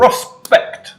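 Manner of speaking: "Respect" shouted high and loud. Shown as a demonstration. Asked to say it normally, shouting instead. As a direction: belt out "Respect". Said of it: "Just say "respect" normally".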